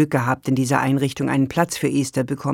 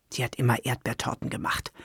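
softer, low murmur to herself; 3 semitones lower, 9 dB quieter than usual. Acted. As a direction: mumble it into the plate. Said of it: "murmelte Esther".

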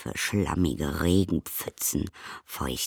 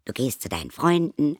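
higher, bright explaining voice; cheerful little creature; 8 semitones higher, 4 dB louder than usual. A narrator's reading. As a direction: explain it like an eager little one. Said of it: "erklärte es".

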